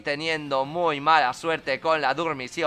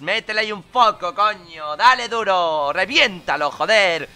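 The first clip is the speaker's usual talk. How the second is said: urging on; 4 dB louder than usual. Real, not acted. Urging his Pokémon on.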